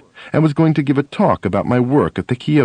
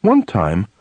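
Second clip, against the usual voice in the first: usual speaking voice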